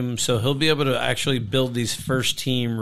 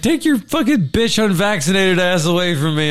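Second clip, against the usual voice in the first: higher, hammed-up furious rant; mock angry coach; 6 semitones higher than usual. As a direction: rant like a coach shoving a player off. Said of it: "he's like".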